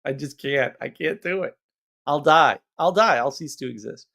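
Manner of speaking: hammed-up despair, tiny voice rising to I'll die; mock despair. A speaker mocking her own despair at people, in hammed-up despair. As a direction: whine like you'll cease to exist. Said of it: "I'm like".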